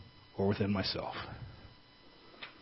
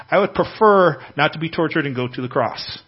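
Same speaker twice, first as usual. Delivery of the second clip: voicing Jesus praying; 4 semitones higher, 7 dB louder than usual. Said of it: "Jesus is praying".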